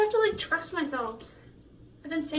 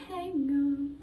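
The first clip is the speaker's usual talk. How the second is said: voice crack. Shown as a demonstration. Singer showing her voice crack, cracking on "Hang on". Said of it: "a little voice crack thing".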